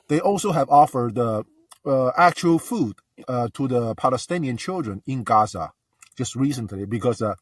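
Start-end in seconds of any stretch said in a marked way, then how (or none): 1.8-7.3 talking with mouthwash in mouth; words round a mouthful of liquid; mouth full. Real, not acted. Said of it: "I have a Listerine in my mouth".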